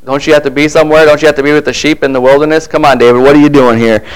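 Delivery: lightly acted, dismissive older-brother sarcasm; mild sarcasm. Eldest brother questions David about leaving the sheep, mildly sarcastic. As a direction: needle him with quick, offhand questions. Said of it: "I sense a little sarcasm here".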